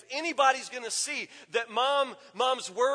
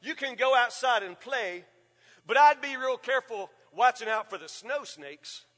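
sly dad warning; 5 dB louder than usual. Retold or imitated. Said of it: "He said".

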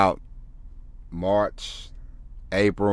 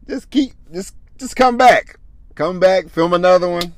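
high, loud rallying push to keep going; loud encouragement; 9 semitones higher, 6 dB louder than usual. Real, not acted. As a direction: cheer them back to the camera. Urging discouraged creators.

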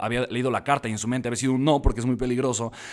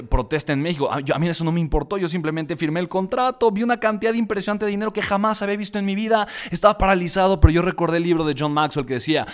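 ordinary talk

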